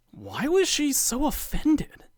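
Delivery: wondering aloud. Acted. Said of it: "He wonders aloud".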